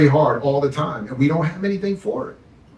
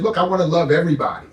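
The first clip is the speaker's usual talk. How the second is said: paraphrased quote; faster than usual. Retold or imitated. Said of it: "he said".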